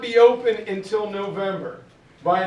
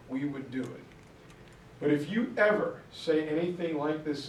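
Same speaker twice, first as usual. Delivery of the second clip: softer, low-key stern warning; a cold, quiet reprimand from the boss; quiet threat; 3 semitones lower, 5 dB quieter than usual. Retold or imitated. Eisenhower threatening Monty.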